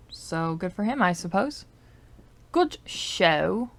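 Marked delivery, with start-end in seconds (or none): 2.5-3.7 put-on playful British accent. Praising the statue's owner, in a mock British accent. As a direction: slip briefly into a British accent. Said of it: "speaking in a British accent".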